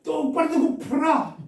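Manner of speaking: high, loud, slow command; crying out. Acted. Preacher shows how he himself would cry it, crying out. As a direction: shout it as an urgent demand. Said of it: "라고 외칠 겁니다".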